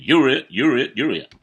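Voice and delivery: loud, high triumphant yelling of you're it; a boy crowing from the floor at his brother; gleeful yell. Retold or imitated. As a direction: shout it like a kid who just won tag. Brother yelling while rolling on floor.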